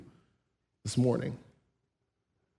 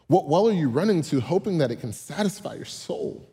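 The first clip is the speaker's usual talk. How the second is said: emphatic. Real, not acted. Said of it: "repeated with force".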